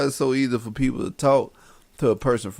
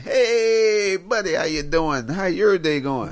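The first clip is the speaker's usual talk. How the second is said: friendly southern stranger; 4 semitones higher, slower than usual. Retold or imitated.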